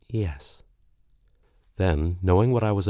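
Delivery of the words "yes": sad. Acted. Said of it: "a little sadly".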